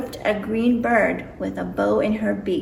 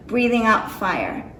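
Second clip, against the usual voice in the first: ordinary delivery, nothing marked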